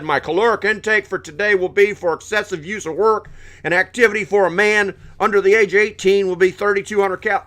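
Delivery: mock nerdy voice. Mocking a prepper counting calories.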